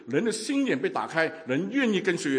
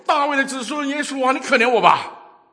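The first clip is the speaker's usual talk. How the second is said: loud cry for mercy; 7 semitones higher, 11 dB louder than usual. Acted. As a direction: cry out at the top of your lungs, begging. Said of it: "于是他大声喊道说".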